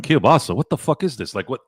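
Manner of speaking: mock disbelief at the word Kielbasa; disbelieving. A retold young Joe meeting kielbasa, mock disbelief. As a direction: Kielbasa said as a mild incredulous question. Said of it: "I'm like".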